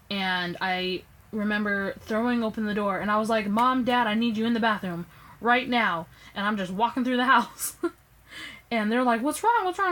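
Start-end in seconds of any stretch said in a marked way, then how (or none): 3.5-6.1 urgent call to her parents, a bit louder. Retold or imitated. 9.2-9.9 high, worried double question; alarmed parents. Retold or imitated.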